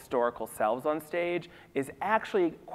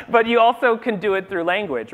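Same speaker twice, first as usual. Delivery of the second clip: laughing; 7 semitones higher, 9 dB louder than usual. Real, not acted. Laughing after being caught out.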